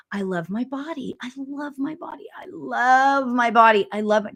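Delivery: affirmation mantra. Shown as a demonstration. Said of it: "I started saying to myself".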